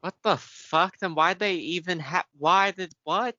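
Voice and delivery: can't believe what you just heard; shocked disbelief. Real, not acted. Shocked by wrestling news.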